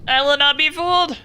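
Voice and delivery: defiant declaration. Real, not acted. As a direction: proclaim it like a battle vow.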